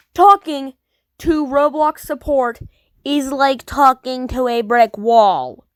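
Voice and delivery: loud, slow, fed-up complaint; slow emphatic rant. Real, not acted. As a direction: lean into it, exasperated. Ranting about Roblox support.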